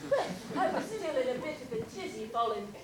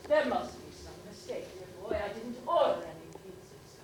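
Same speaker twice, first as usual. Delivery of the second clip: brisk and businesslike, no fuss; a widow calmly correcting the delivery boy; matter-of-fact. Retold or imitated. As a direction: state it like a plain fact. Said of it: "I said matter-of-factly".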